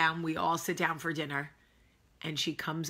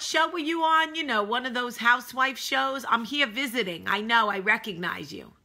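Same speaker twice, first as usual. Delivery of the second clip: put-on higher-pitched Northern woman's accent; 6 semitones higher, 4 dB louder than usual. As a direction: imitate a pushy Northerner recognizing someone. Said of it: "I like to do a northern accent".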